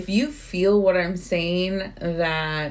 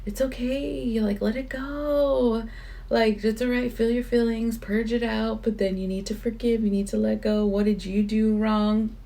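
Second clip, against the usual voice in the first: gentle inner voice; 4 semitones higher than usual. Retold or imitated. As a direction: soothe yourself like a loving friend. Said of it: "or the one who was like".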